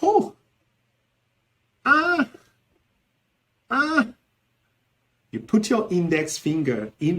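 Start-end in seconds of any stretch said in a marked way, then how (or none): 0.0-4.1 short, very high exclamations; cries of regret. Shown as a demonstration. Teacher demonstrating regret interjections, regretful. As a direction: yelp with regret, each cry separate.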